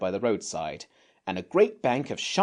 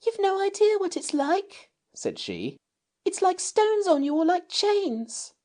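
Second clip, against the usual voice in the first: shaken and earnest; shaken girl. Acted. Jane tells the others, still shaken.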